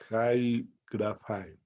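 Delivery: slow "Jai grafai", with a Spanish j on "Jai"; pronunciation model. Shown as a demonstration. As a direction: say "Jai grafai" word by word, slowly. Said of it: "Y se pronuncia así". ("Jai grafai" pronunciado despacio, con jota)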